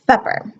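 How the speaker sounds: supper with S sounding like TH; tongue out between the teeth on supper; frontal lisp. Shown as a demonstration. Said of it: "The S almost sounds like a T H".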